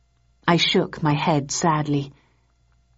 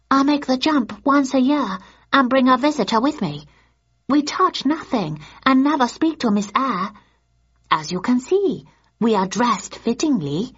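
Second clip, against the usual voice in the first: polite, higher tour guide explaining; higher guide's voice; 7 semitones higher than usual. Acted. Mrs Nakajima explaining the trip to Thursday, in a higher polite voice.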